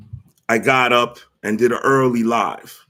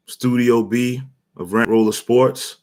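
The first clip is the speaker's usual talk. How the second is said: slow flat robot voice. Pretend. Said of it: "I have to say it like a robot".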